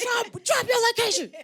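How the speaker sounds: high comic shout, itching to fight; retold challenge. Couple on live calling out a critic, mock-combative shout. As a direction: call out the troll, hammed up and loud.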